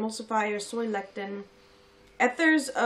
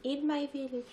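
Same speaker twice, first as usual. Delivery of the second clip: bad Russian accent; 5 semitones higher, 4 dB quieter than usual. Shown as a demonstration. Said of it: "That's the wrong accent".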